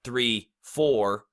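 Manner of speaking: evenly spaced count, a pause after each number; counting on the beat. Shown as a demonstration. Rap coach counts out the beat for learners, evenly spaced. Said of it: "every time there is a beat".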